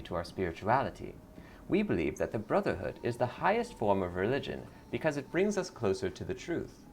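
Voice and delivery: sugary cult greeter; lightly voiced sweet cult recruiter. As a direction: welcome her in like a smiling recruiter.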